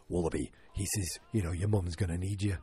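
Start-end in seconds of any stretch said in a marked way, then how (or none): 0.1-0.5 low Australian warm-up word; Australian accent. Shown as a demonstration. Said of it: "key word to get me back into the Australian accent". 1.3-2.6 lightly imitated Australian dad talk; recovered Australian accent, kept low-key. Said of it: "get me back into the Australian accent".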